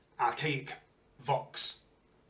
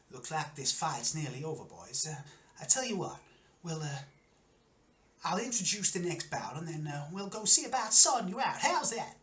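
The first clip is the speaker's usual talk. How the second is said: lightly voiced host, rising higher to the final question; friendly showman Wiley; 4 semitones higher than usual. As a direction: talk business as the host, lightly in character.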